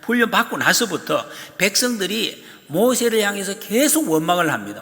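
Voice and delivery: ordinary talk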